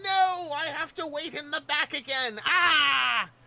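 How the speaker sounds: bad, very high, slow character voice, drawn-out "ah". Acting out a character sent to the back: bad Starscream voice. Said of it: "I don't have a good Starscream voice".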